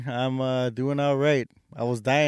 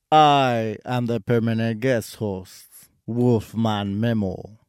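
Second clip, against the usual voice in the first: vampire count voice. Acted. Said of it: "the Count from Sesame Street".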